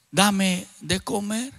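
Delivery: a low, slow demand that fades to a whisper on Padre; low, slow possessed man begging for food, whispering Padre; menacing possessed voice. Retold or imitated. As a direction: growl it low and slow, then breathe the last word. Possessed man repeats his demand.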